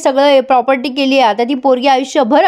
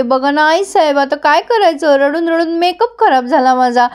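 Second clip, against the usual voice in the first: mock-tearful complaint, slightly raised pitch; tearful whining; 3 semitones higher than usual. Daughter-in-law complains to mother-in-law about ruined makeup, mock-tearful whine. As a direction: whine lightly as if after crying. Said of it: "पण ही लगे मोठ्याने रडायला लागते".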